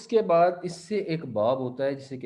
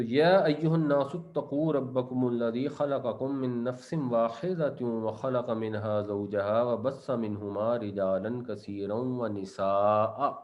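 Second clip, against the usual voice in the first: Quranic recitation; 2 semitones lower than usual. Acted. Teacher reciting the verse to his students, in measured chant. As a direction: recite it like tilawat, drawing out the ending.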